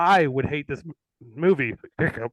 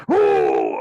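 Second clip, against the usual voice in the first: deep, drawn-out mock Cleese groan; imitating John Cleese, much lower; 7 dB louder than usual. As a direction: ham it up like a pompous Brit. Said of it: "acting like John Cleese".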